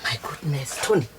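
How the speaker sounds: suspicious surprise. Real, not acted. The speaker reacts to Tony's odd look.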